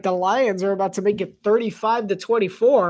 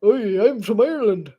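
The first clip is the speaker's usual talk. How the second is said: Irish with a Scottish tinge; deeper Irish accent. Shown as a demonstration. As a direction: try a deeper Irish brogue. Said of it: "Let's see if I can go deeper".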